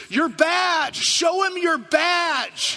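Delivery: loud, high shout across the field; yelling. Retold or imitated. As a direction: yell it at the top of your lungs. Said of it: "he yells at the top of his lungs".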